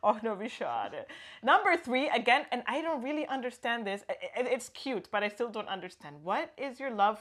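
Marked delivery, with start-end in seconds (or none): 0.0-1.0 disappointed och no. Shown as a demonstration. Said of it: "repeats the example".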